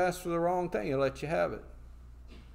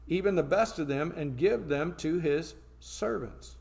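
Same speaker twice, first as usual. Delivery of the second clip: measured, emphatic pulpit reading; scripture reading. Acted. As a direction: read out the list item by item like a warning. Reads scripture aloud.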